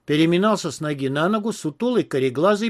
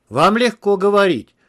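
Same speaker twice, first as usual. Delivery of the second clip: higher, louder aggrieved complaint; plaintive, raised-pitch reproach; sighed complaint; 5 semitones higher, 6 dB louder than usual. A narrator's reading. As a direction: complain with a sigh to the boss. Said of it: "вздохнул сутулый".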